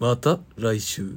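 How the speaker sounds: very loud, very slow, deep heartthrob ikebo voice. Saying the sign-off again on request: handsome cool voice. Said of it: "イケボでまた来週って言ってください".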